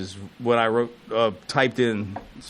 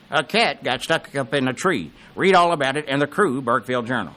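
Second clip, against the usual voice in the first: Henry commercial impression. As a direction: imitate an old commercial pitchman, drawing out the headlines. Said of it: "I can do the commercials".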